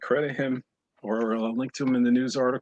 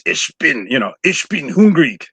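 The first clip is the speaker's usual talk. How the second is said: "Ich bin hungrig" louder, harsh German; hammed-up German, louder; mock German; 4 semitones higher, 8 dB louder than usual. Shown as a demonstration. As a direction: bark the German out. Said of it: "With German".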